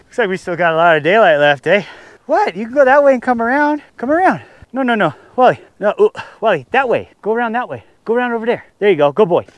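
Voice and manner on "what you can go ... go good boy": much higher calling voice to the dog. Real, not acted. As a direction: coax the dog to come around, high and sing-song. Calling dog back in snow.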